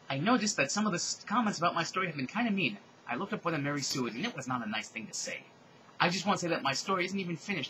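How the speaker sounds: a hint of wounded complaining; upset young author. Author answering mean comments on her story, mildly hurt.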